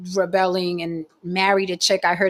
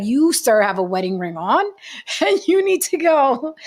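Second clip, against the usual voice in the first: mock stern dismissal; 5 semitones higher than usual. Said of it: "I was like".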